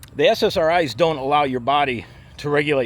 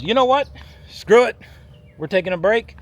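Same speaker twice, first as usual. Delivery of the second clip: fed-up body; 5 semitones higher, 4 dB louder than usual. Acted. Body voiced giving up, fed up.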